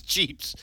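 "Cheeps" with a long ee for "chips"; mock Spanish accent. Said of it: "in an accent".

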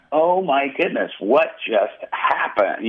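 retold amazement, high start slowing right down; astonished. Pastor recalling falling to the ground untouched, astonished. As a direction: draw out the disbelief, starting high.

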